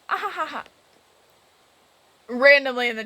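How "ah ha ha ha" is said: lightly voiced mocking chat laugh. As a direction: read the laugh out mildly.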